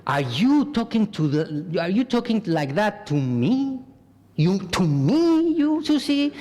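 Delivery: indignant, rising to a high sharp pitch; offended retort. Retold or imitated. A hurt person snapping back at someone who insulted them, indignant. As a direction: bristle at the insult, slowing on the last words.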